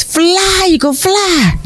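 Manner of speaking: high, ringing call to the bird; a soaring high-pitched plea to fly. Acted. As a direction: urge the eagle skyward with a lifted cry. Friend tosses eagle from hut roof.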